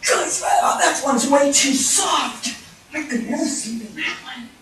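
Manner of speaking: lightly acted complaint, words stretched out; displeased sleeper. Goldilocks voiced trying beds.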